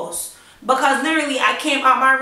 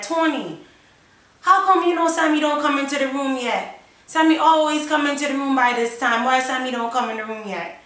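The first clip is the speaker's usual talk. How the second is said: put-on mother's Jamaican-accented question, raised pitch at first; 3 semitones higher than usual. Mum asking dad why the child hasn't come in, Jamaican accent. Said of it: "that's my accent".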